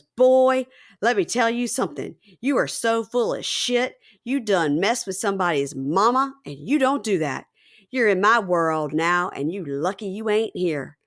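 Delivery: lightly voiced cowboy telling someone off, slowed in places; a hint of western showdown swagger; cowboy confrontation. Podcaster mimics Julian stepping out to confront Osama, lightly cowboy. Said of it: "Howdy, partner".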